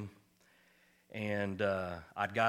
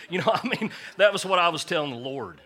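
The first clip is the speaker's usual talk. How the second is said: higher and louder, laughing through the words; 9 semitones higher, 12 dB louder than usual. Real, not acted. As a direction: crack up at your own joke mid-sentence. Laughing at his own joke.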